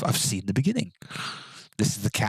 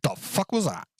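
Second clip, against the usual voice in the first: surprised; 8 semitones higher than usual. Real, not acted. Sudden noise in game.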